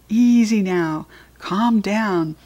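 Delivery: slow, coaxing hamster trying to calm the beast; soothing squeak. Acted. Hamster calming the big dog, soothing and slow. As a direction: ease the dog down, drawn out on Easy now. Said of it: "I squeaked soothingly at the beast".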